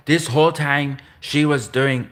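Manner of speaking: put-on Russian accent slipping into Indian, drawn out; slow, accidental Indian accent; botched Russian accent. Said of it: "why am I doing an Indian accent".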